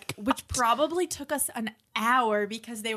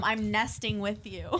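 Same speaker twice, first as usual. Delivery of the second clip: laughing; 2 semitones lower, 3 dB quieter than usual. Real, not acted.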